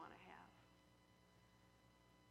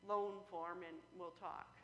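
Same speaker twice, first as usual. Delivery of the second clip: teller explaining; 4 dB louder than usual. Acted. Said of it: "And she goes".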